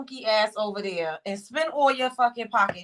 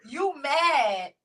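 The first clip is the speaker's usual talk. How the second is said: loud laugh-shout, drawn out; 3 semitones higher, 10 dB louder, slower than usual. Real, not acted. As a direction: crack up mid-taunt. Mocking with laughter.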